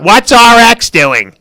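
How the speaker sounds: loud, high mock cry, drawn out; mocking mimicry. Acting out rival copying others.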